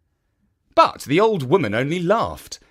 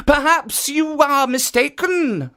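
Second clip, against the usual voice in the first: a slightly raised, mildly surprised statue voice; lightly voiced statue; 14 semitones higher, 4 dB louder than usual. A narrator's reading. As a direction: play innocent with a touch of surprise. Statue deflects ogre.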